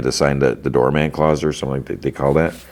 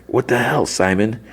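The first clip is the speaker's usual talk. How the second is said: shocked outrage; 8 semitones higher than usual. Retold or imitated. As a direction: imitate an appalled brother's outburst. Brother reacts to smashed marble.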